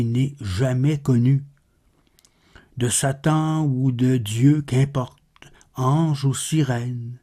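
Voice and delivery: measured, understated poetry reading; solemn recital with restrained pitch; poem recitation. Acted. Recites Baudelaire poem after plainer introduction.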